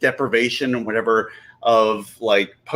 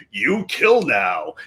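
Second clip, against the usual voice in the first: id voice; 4 semitones lower, slower than usual. Retold or imitated. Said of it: "where the id is like".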